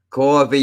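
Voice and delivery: Coffee said with a long aw, kaw-fee; Coffee with a round open aw in the first syllable; local way. Shown as a demonstration. Streamer showing how locals say Coffee. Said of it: "that's how we say it".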